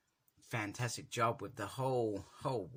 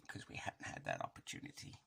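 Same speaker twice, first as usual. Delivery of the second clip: whisper; 12 semitones lower, 8 dB quieter, faster than usual. Real, not acted. Unvoiced aside.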